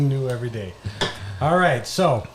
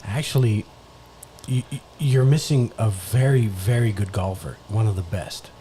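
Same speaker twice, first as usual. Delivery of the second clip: color commentator; 2 semitones lower than usual. Acted. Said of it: "You're the color commentator".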